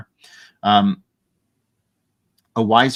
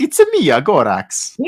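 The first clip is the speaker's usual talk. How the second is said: much higher, louder Roman Bellic impression; Roman Bellic accent; 8 semitones higher, 6 dB louder than usual. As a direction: squeak it out as a cartoonish Roman Bellic. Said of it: "He's Roman Bellic".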